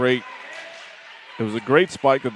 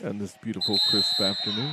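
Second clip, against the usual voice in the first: soft, hushed golf commentary; golf announcer voice; 2 semitones lower, 5 dB quieter than usual. Pretend. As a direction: set the scene like televised golf. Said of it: "my golf announcer's voice".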